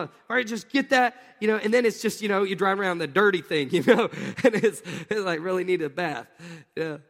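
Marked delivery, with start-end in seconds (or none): 0.0-1.1 high, loud, half-joking cry of wanting; hammed-up yearning for a new car; mock eager longing. Preacher imitating a car-crazed buyer with a loud, high, mock-eager cry.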